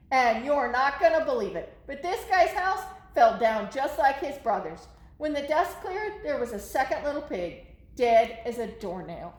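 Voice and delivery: put-on lively read-aloud for kids; story narration. A narrator's reading. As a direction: tell it to the kids as the wolf. Reading the Wolf's story to children.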